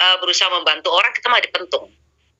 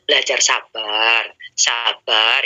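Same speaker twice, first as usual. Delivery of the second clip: low, slow calming reminder; gentle reminder; 6 semitones lower, much slower than usual. Retold or imitated. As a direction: soothe yourself into patience. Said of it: "saya diingetin". (mengingatkan dengan lembut, rendah dan pelan)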